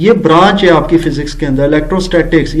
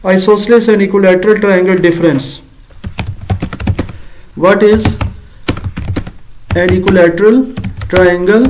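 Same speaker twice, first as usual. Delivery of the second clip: slow dictation; much slower than usual. Shown as a demonstration. Teacher reads a wrong question aloud while writing, slow. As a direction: read the faulty question word by word, slowly. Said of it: "میں ذرا short short لکھ رہا ہوں".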